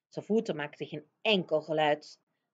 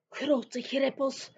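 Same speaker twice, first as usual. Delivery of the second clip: giant's whisper; 7 semitones higher, much slower than usual. A narrator's reading. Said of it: "fluisterde de grote vriendelijke reus".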